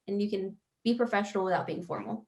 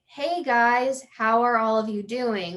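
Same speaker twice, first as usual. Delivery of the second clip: relaxed, louder conversational hello; casual friendly greeting; 4 dB louder, slower than usual. Shown as a demonstration. Agent greeting clients in an authentic conversation, casual and friendly. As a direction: greet the room like friends, openly. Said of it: "we're having a conversation that's authentic".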